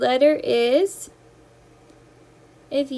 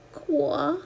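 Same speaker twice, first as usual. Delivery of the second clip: creaky door sound; 4 dB quieter than usual. Shown as a demonstration. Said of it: "Like the haunted house doors".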